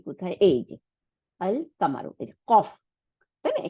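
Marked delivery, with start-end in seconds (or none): 1.4-2.1 distinct l in আল before কামারু; sounded lam. Shown as a demonstration. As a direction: pronounce the l of আল, leave the q of কামারু single. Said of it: "লামটা উচ্চারণ হবে".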